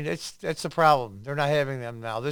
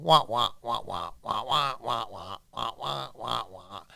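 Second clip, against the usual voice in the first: low muffled wah-wah like a muted trombone; Charlie Brown adult voice; 3 semitones lower than usual. Retold or imitated. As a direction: drone it like a horn played through a mute. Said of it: "Sounds like the adults in Charlie Brown".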